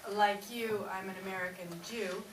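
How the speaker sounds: a light put-on Jewish American accent; lightly hammed Jewish American accent. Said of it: "That's a really good accent".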